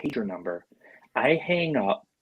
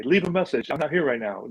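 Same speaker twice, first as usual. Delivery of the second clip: higher, sing-song "Leave a message" like a recorded greeting; voicemail greeting; 4 semitones higher than usual. Shown as a demonstration. Caller explains his pager greeting, mock recorded voice. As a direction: play it like his old pager's answering message. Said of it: "pager voicemail greeting".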